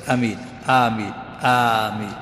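"ameen" in growing lengths of the first vowel; lengthening of "ameen". Shown as a demonstration. Teacher insisting on some lengthening, stretching "ameen" by degrees. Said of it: "لا بد من المد ولو يسير".

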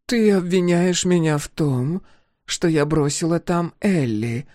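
measured, careful, slow words; testing for a trap; slowly. A narrator's reading. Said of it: "медленно начинает она".

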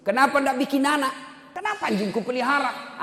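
high-pitched retold questions; incredulous questioning. Preacher retells his baffled questions.

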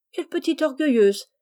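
couper la parole, plus aigu; teasing interruption. Acted. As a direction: une taquinerie vive. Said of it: "interrompit Rose". (interrompre en taquinant, voix plus haute)

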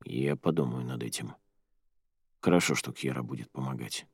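low hushed male voice; lightly voiced young man. A narrator's reading. Jer speaks, male voice.

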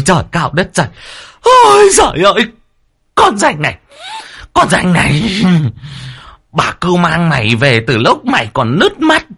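very high, loud screeching tirade; shrill wailing rant. Acted. First wife screaming at the servant girl, very high and loud. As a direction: lay into the ungrateful maid, wailing.

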